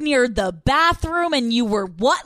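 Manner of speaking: slow, loud incredulous question; sarcastic slow-motion question; mock disbelief. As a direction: drag out the disbelief. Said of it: "We're like".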